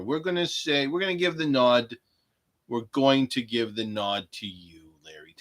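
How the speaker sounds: loud, high showman voice throwing a bone; hammed-up benevolent proclamation; mock grand announcement. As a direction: play the magnanimous host. Mock-generous announcement to chat.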